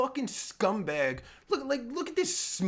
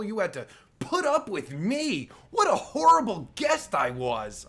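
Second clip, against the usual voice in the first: loud, high mock-guilty yell; sarcastic shout; 3 semitones higher, 3 dB louder than usual. Guest mocking the host who is leaving, with a loud, high sarcastic yell. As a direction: shout the fake remorse right at him.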